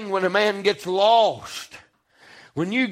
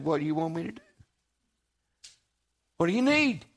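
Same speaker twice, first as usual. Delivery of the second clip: gentle question; 5 semitones lower, 7 dB quieter, much faster than usual. Retold or imitated. Jesus asks gently.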